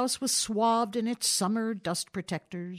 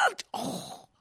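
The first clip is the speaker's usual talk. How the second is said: short grunt of sudden pain; a rheumatic twinge caught mid-breath; 7 semitones higher, 6 dB quieter than usual. A narrator's reading. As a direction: ugh then a soft oh of pain. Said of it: "made a sudden grimace".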